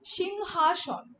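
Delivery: "সিংহাসন" drawn out very slowly, syllable by syllable; slowly sounded out. Shown as a demonstration. Teacher slowly pronounces the joined word for students. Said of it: "হয়ের সঙ্গে আ যুক্ত হচ্ছে".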